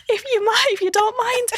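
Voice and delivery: put-on high-pitched Scottish accent, politely asking; thick Scottish accent. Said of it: "with a really thick Scottish accent".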